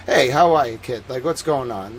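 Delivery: lightly voiced easygoing Boston local; a touch of casual Boston accent; relaxed working-class Boston accent. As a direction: greet like a laid-back working-class Bostonian.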